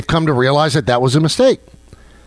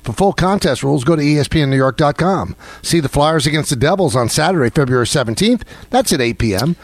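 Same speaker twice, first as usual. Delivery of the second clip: live read of a radio contest promo. Shown as a demonstration. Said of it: "now that you just finished the read there".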